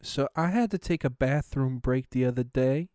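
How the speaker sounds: put-on high, loud sassy girl; sassy comedian. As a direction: dish it out sassy and shrill. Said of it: "they'll be like".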